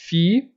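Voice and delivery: fi-u-tra-gen with the L said as U, syllable by syllable; phonetic spelling. Shown as a demonstration. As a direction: sound out fi-u-tra-gen for the class. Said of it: "iria transcrever dessa forma".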